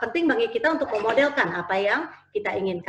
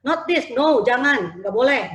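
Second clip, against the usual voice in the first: scolding parent; 4 semitones higher, 5 dB louder, slower than usual. Retold or imitated.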